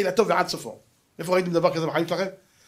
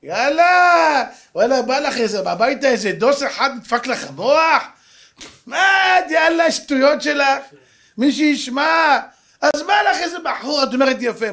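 high, loud mocking scolding from the girlfriends; friends scolding loudly; 7 semitones higher, 6 dB louder than usual. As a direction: hammer her with high, loud disbelief. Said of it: "אז החברות שלה אמרו לה".

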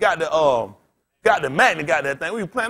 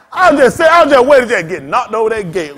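laughing; 7 dB louder than usual. Real, not acted. Laughing retelling the scare.

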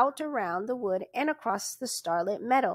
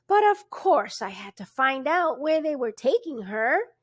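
patient; 4 semitones higher, 4 dB louder than usual. Acted. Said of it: "he explained patiently".

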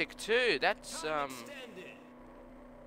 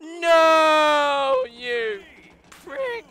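angry high yell; 8 semitones higher, 6 dB louder, much slower than usual. Real, not acted. Cursing rival who cut him off.

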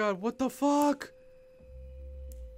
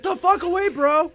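loud, raised-pitch yell; alarmed yell; 5 semitones higher, 7 dB louder than usual. Real, not acted. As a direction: yell to drive it away. Player driving off game threat.

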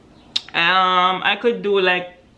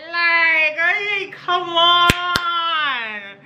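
much higher, hyped-up praise; excited high squeal; 10 semitones higher, much slower than usual. Pretend. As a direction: gush like a proud best friend. Hyping up her own look.

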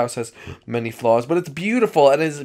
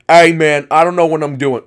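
sing-song sheep; 10 dB louder than usual. Acted. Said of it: "you sound like a sing-song sheep".

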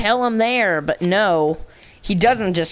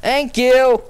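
a much louder, higher, gloating thank you; 5 semitones higher, 5 dB louder than usual. Real, not acted. Gamer to teammate, a loud higher thank you. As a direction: belt it out like you just got saved.

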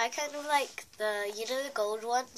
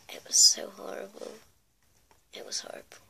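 whispering; 2 semitones lower, faster than usual. Real, not acted. Dramatic memory of bad night.

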